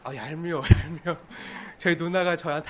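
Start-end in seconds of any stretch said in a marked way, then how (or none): 0.0-1.2 annoyed brothers. Retold or imitated. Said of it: "그 듣는 형제들은 어떻죠?".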